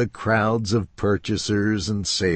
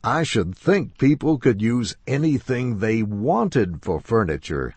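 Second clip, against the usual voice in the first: somewhat sharply; 4 semitones higher than usual. Acted. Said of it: "somewhat sharply".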